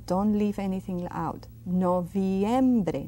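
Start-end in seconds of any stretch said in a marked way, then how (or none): 1.7-3.1 "Noviembre" with V, I and E all said; every sound. Shown as a demonstration. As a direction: leave nothing out of "Noviembre". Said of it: "Pronounce them all".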